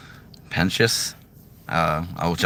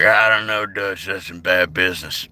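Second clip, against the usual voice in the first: Arthur Morgan impression. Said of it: "I can do Arthur Morgan".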